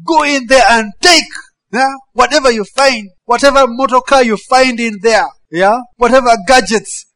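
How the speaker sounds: mock command to loot. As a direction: egg the looters on. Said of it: "God was basically saying".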